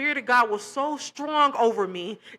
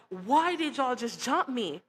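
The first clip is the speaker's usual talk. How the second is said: slow, pained retelling of a crying plea; tearful question; 2 semitones higher, 3 dB quieter than usual. Retold or imitated. Jumped at church, asking her attackers, slow and tearful. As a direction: replay the hurt, slowly. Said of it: "And I'm crying 'cause I'm like".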